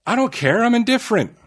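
high-pitched, defensive protest; protesting indifference. Real, not acted. Denies to co-host not wanting her in there, high protesting.

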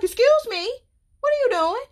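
high, sassy mock outrage; mock indignant. To mama who skipped the kiss, high sassy scolding. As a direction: scold mom like a spoiled kid, pitched high.

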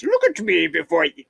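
lightly attempted German accent. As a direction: have a half-hearted go at a German monster. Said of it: "But maybe in a German voice".

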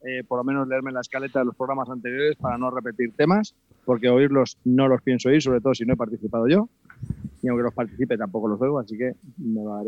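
distant, off-mic voice; speaking away from the microphone; far from mic. Real, not acted. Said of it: "Acércate al micro, que ya ni se te oye".

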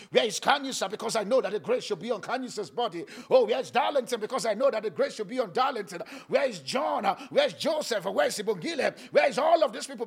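loud, high calling out names; God calling out. Acted. Preacher voicing God calling for believers, loud searching cry. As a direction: call each name across the heavens.

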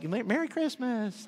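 drawn-out mock festive greeting from a bird; lightly voiced taunting seagull; cheeky seagull. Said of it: "those little seagulls had just".

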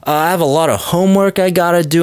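high, put-on excuse voice; brush-off girl. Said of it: "She's like".

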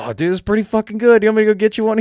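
high-pitched imitation of himself, keen; eager pitch. Drinker offering his buddy a new beer, eager.

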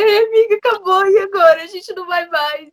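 mock tearful wail to her friend; retold crying. Crying to her friend on the phone, tearful. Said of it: "eu liguei pra minha amiga chorando".

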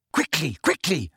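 put-on breathy old caretaker's mutter; wheezy mutter. A narrator's reading. Filch hurrying to the office door, wheezy mutter. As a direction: wheeze it under your breath. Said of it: "a wheezy voice mutter".

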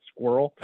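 "squirrel" run together as one syllable, skwurl; American squirrel pronunciation. Shown as a demonstration. Demonstrating the American way, "squirrel" squashed into one syllable. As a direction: say "squirrel" as a single slurred syllable. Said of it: "which is exactly how I say it".

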